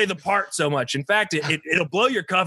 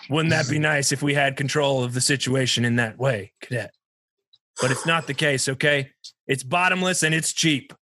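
gruff commanding officer; 5 semitones lower than usual. Acted. Commanding officer briefing a cadet.

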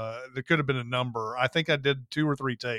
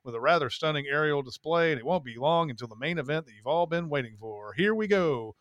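fast, swooping play-by-play patter; old-timey announcer; 2 semitones higher, faster than usual. Shown as a demonstration. Narrator calling the event play-by-play, old-timey announcer voice. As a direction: call it like an old-time race announcer. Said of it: "announcer voice".

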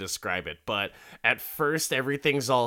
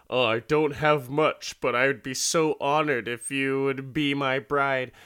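raised, pleading mock proposal voice; put-on voice of a humble suitor; hammed-up suitor; 3 semitones higher, 4 dB louder than usual. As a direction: propose like an earnest old suitor, in jest. Old man's acted marriage proposal.

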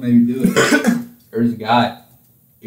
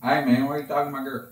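put-on quick, softer take on a country Southern accent; 8 dB quieter, faster than usual. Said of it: "just, yeah, just like that".

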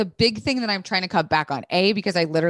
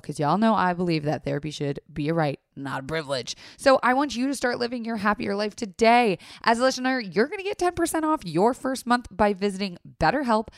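ad read. Acted. Sponsor ad read.

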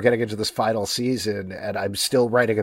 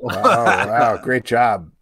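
sarcastic wow; 5 dB louder, much slower than usual. Acted. Mock praise after joke.

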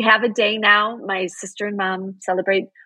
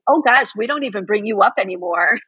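laughing through quote. Retold or imitated. Quoting mom while laughing.

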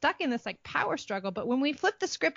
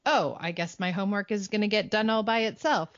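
quick, higher hammed-up silliness; fast, raised, hammed-up homework fairy bit; silly mock panic; 4 semitones higher, faster than usual. Shown as a demonstration. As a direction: play the helpless kid fishing for a homework fairy. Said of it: "or I'm being silly".

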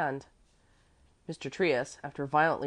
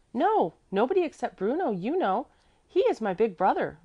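put-on high, louder little-girl voice; child explaining; 8 semitones higher, 6 dB louder than usual. A narrator's reading. Little girl explains her brother to gentleman, high and eager. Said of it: "Mäzli explained".

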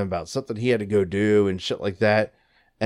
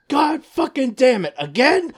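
high, loud, slow exasperated groan of a fed-up worker; fed up, it's happening again; exasperated curse; 5 dB louder, slower than usual. Retold or imitated. Store clerk fed up with the huffing customer, exasperated curse. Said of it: "she goes".

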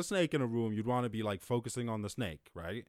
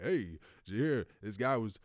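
lightly voiced dad sharing a headline, getting louder; dad reading news aloud; 4 semitones higher, 7 dB louder than usual. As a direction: build to a loud finish as an imitated excited dad.

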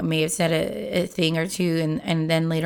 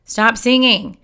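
mild mock yell of a tired, fed-up mother; mom yells; 2 semitones higher, 4 dB louder than usual. Tired mother snapping at her singing daughter, mild mock yell. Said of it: "the mom just yells up at her".

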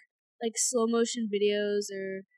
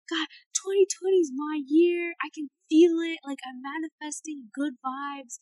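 hopeful influencer; 4 semitones higher, 4 dB louder than usual. Retold or imitated. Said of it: "they'll be like".

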